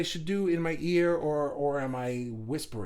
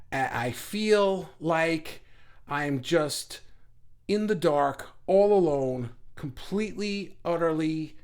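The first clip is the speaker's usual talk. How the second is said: acted despair, spaced out in halting fragments; depressed helplessness. Acting out being stuck in inaction, helpless despair. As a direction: draw it out, pausing before each bleak word. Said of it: "you're just depressed. You're just like".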